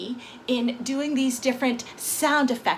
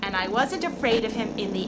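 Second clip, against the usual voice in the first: higher, lively spooky story voice; storytelling for kids; 6 semitones higher than usual. Acted. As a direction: tell it like a campfire tale for children. Tells a spooky Halloween story.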